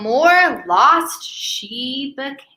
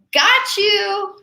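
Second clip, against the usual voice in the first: triumphant cry; 6 semitones higher than usual. Acted. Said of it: "she cried".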